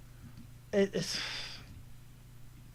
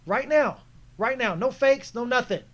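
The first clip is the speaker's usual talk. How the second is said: urgent demand. Retold or imitated. Urging teammate to pass immediately.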